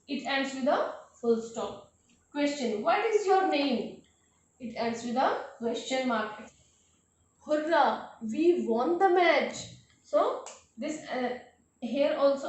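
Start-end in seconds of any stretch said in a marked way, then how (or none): 2.8-4.0 "What is your name?" raised in pitch, then falling; questioning voice. Shown as a demonstration. Teacher giving a question example, "What is your name?" said higher. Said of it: "our voice goes a bit higher". 7.5-9.6 excited, raised cheer; exclamation of joy. Shown as a demonstration. Teacher giving an exclamation example, mildly triumphant and excited. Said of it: "we are expressing a sudden feeling".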